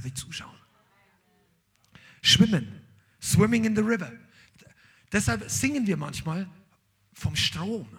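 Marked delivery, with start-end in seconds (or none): 2.2-4.1 emphatic urging. Real, not acted. Preacher urging at force.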